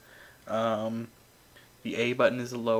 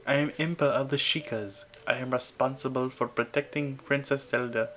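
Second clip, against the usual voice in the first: put-on a light Indian accent for the guardian. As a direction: read the guardian's lines with a hint of an Indian accent. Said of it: "Why am I giving her an Indian accent?".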